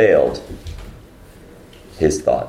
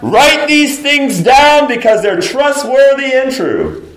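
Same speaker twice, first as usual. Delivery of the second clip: huge, high, drawn-out shout; shouting voice from heaven; 8 dB louder than usual. Acted. Preacher acting the voice from heaven in Revelation, shouting. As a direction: thunder it out as God's proclamation. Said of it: "a voice from heaven shouting".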